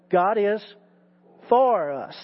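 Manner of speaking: "for" set apart after a pause; pause, then land on "for"; stress on for. Shown as a demonstration. Preacher drilling the third word, stress on "for". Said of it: "Third word".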